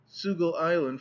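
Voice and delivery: "Sugal Island", sugar ending in an L. A narrator's reading. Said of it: "could rarely sound the letter R, but used L".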